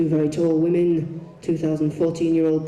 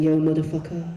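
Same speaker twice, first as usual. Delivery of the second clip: English voice. Shown as a demonstration. Boys practicing rap greeting, unconvincing English accent. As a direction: say it in a plain English voice. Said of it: "in an English voice, it doesn't work".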